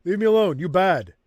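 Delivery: loud, high angry orc; snarling orc worker; gruff orc voice. Acted. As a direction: bark it like a cornered orc. Reading orc dialogue aloud.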